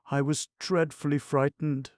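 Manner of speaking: high, mock-frightened flutter; delicate shiver. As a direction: play a fragile fright, pitched high. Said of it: "with a delicate shiver".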